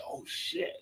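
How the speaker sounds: hushed, voiceless oh-no; whispered dismay. Retold or imitated. Caught screen-sharing on a team call, whispered dismay. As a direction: whisper it like you've just been caught. Retold moment of being caught.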